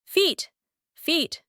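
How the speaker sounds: "Feet" with a long ee, pitched high; long vowel. Shown as a demonstration. Teacher giving test answer, long vowel in "Feet". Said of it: "Now, long vowel here".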